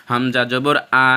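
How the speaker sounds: হামজা জবর আ with a short clear আ; careful letter drill. Shown as a demonstration. Teacher drilling students on হামজা জবর আ, crisp and clear. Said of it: "শক্ত করে আমি যেভাবে বলতেছি".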